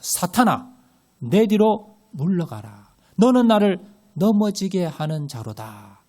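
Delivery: slow, stern Jesus rebuking Peter; slow, weighty command to "사탄아"; stern rebuke. Acted. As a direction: point at him and rebuke slowly. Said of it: "베드로를 딱 가리키면서".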